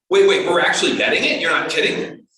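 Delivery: acted-out startled questioning; disbelieving. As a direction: imitate team members catching on late. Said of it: "I heard this from several team members".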